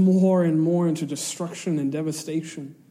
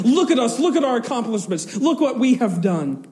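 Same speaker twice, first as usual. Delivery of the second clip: proud boasting voice; 6 semitones higher, 3 dB louder than usual. Retold or imitated. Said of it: "we want to say".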